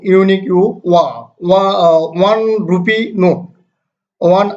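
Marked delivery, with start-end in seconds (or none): 2.3-2.4 "one" opening on a "wa" sound; pronunciation demo. Shown as a demonstration. Teacher giving an example of O, demonstrating "one" with "wa". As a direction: start "one" with a clear w, as in wa. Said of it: "এখানে ওটা ওয়ার মতো উচ্চারিত হচ্ছে".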